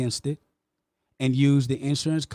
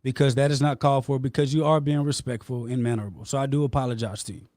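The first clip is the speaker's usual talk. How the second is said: calmer apology; 2 semitones lower than usual. Real, not acted. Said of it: "let me bring down my tone".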